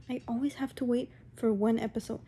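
whispered complaint under her breath. Real, not acted. Vlogger venting to viewers, whispering. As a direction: breathe it out as a fed-up aside. Whispered aside while ranting.

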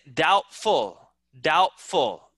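"Doubtful" said as dout-ful; "Doubtful" clearly, without any B; silent B. Shown as a demonstration. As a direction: go straight to T in "Doubtful". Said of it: "kita tidak bilang B".

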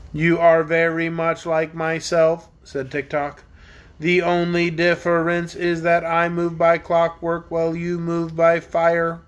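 slow, steady, lightly mechanical voice; clockwork man. Acted. Tick-Tock comparing himself to the dragon, slow and even. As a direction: speak evenly like a wind-up man.

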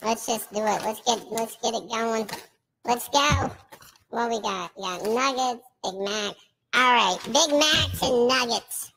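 filtered streamer voice. Acted. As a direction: hype it up through a filter. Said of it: "take the voice filter off".

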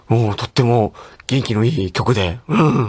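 a measured, appreciative actor impression; Masato Sakai. Actor praising the host's song, slow, lightly imitated voice. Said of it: "結構似てると思う".

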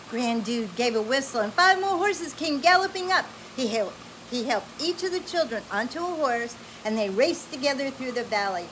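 bright, animated read-aloud voice; lively storybook reading. Acted. Parent reading an adventure story to a child, animated.

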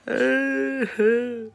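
high-pitched fake wail; high mock sobbing; mock crying. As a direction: imitate her crying with a drawn-out squeal. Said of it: "she starts crying".

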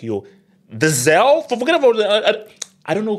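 high, loud burst of hype; hyped-up fan. Acted. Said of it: "I'm like".

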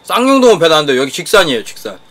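speaking between bites; talking while chewing. Real, not acted. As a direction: mouth partly full. Seen 2: Just took a bite; talks with puffed cheeks, chopsticks over food.

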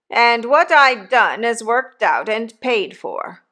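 hint of a coarse old convict talking to his boy; rough convict. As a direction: give the old convict a bluff, hearty push. Convict Magwitch voiced in story.

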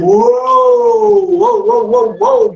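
whoas leaping high, then settling down; high surprised whoa. Real, not acted. Son jumping around nearby.

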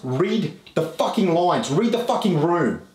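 slow, drawn-out angry command; real yelling. Real, not acted. Telling a mate to read the room, yelling. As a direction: hammer it home word by word, heated. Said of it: "You stop yelling and I'll get out".

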